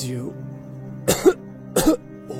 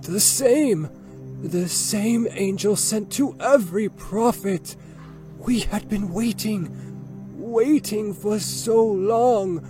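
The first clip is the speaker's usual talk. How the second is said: put-on high, fervent old man's voice; excited old man; 10 semitones higher, slower than usual. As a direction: proclaim it with trembling zeal. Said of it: "Waraqa continued in his excitement".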